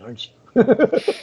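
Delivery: a fan's slow amazed question; mock surprised fan. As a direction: play the starstruck fan. Retelling fan recognizing him.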